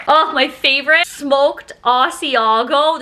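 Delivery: slow, savoring excited gush over smoked Asiago; delighted. Real, not acted. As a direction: stretch it out like it's a treat. Unwrapping favorite cheese.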